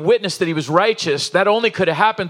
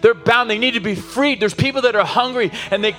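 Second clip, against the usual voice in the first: rising preacher's cry, building with each line; preaching at full force; 3 semitones higher than usual. Acted. Pastor urging the congregation to finish the race, impassioned and building. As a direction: drive it home to the whole congregation.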